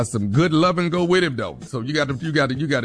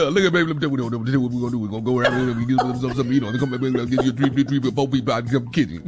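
mumbling Southern guy; 3 semitones lower, faster than usual. Retold or imitated. Imitating the boyfriend's talk.

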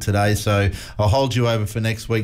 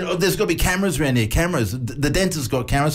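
mildly panicky, higher-pitched retelling; imitated panic; 4 semitones higher than usual. Son telling dad about cameras, imitated mild panic. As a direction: imitate a son grasping for a solution. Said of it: "I can hear it in his voice".

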